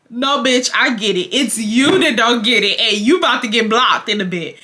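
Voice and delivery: fed-up telling-off; belligerent. Acted. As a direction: snap back at him, punching the words. Acted angry comeback to the man.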